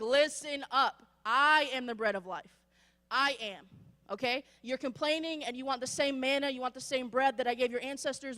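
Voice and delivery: Jesus rebuking. Retold or imitated. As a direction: press the crowd hard. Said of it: "He's like".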